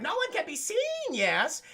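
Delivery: high, theatrical villain voice; shrill pompous sewer ruler; Sewer King voice. Retold or imitated. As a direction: hiss it like a creepy cult leader. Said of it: "And he's like".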